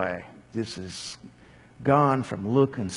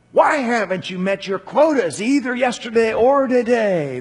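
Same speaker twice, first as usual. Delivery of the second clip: higher, insistent demand; 9 semitones higher, 5 dB louder than usual. Acted. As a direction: press them hard for an answer. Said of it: "they demanded".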